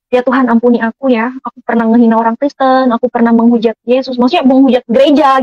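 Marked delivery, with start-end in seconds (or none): 0.1-3.8 tearful prayer. Retold or imitated. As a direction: beg forgiveness through tears. Tearful prayer asking forgiveness. (doa sambil menangis pelan)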